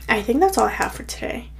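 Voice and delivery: breathless, winded delivery; out of breath, puffing. Real, not acted. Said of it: "I don't know why I'm out of breath".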